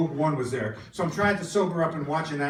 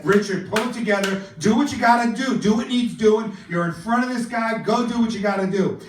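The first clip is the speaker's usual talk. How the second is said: self pep talk; 4 semitones higher, 4 dB louder than usual. Retold or imitated. Gives himself a pep talk.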